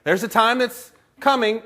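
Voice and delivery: high announcement dropping to casual correction; interrupting himself. Acted. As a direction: proclaim it, then catch yourself mid-thought. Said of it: "so he just said it that way".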